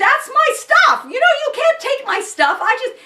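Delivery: acted-out scream. Retelling confronting people over stuff in the garage, retelling own screaming. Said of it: "and then I start screaming at hey".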